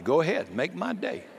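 lightly voiced movie tough guy daring the enemy; Clint Eastwood. Preacher borrowing a movie tough guy's line, lightly voiced. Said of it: "you get a little Clint Eastwood on you".

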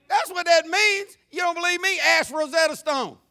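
loud, high-pitched comic protest; mock insistence. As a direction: insist on the joke at full volume. Mock-insisting on his joke translation.

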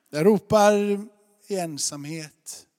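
jag ropar called out loud; a preacher's loud call; loud cry. Acted. Preacher crying out examples.

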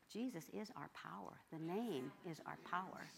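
softly insistent; whispered back. Retold or imitated. A hint of a whisper to her friend, insistent. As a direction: hush it, but firmly. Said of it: "I whispered back".

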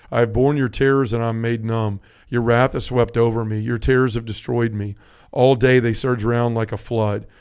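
measured, solemn reading of a psalm; scripture reading. Acted. Reads rest of Psalm 88.

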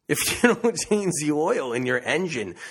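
giggling through the words; laughing. Real, not acted. Laughing at her own oil-and-liver mix-up.

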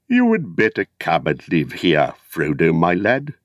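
lightly voiced kindly old hobbit; a hint of a fond old uncle; Bilbo. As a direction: invite the lad in, fondly. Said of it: "said Bilbo one day".

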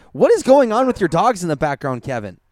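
mildly exasperated outburst. Real, not acted. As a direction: demand an explanation, annoyed. Annoyed by the barking dogs.

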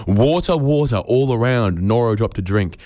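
declaimed verse, rising then falling away; poetry quote. Acted. Comic quoting the Ancient Mariner to the audience, declaimed.

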